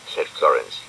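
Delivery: usual speaking voice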